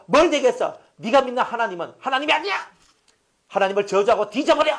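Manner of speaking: high, loud mocking scold with a laugh; furious wife berating Job, shrill and loud; nagging scolding wife. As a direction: rail at the sick husband with contempt. Job's wife berating him.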